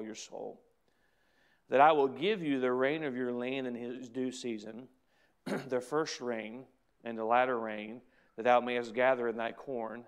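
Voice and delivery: measured, reverent reading of the verses; scripture reading. Acted. Pastor reads the verses to his church, reverent.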